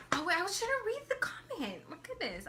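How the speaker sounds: high-pitched laughing aside. Real, not acted. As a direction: laugh through the words. Catches herself, laughing.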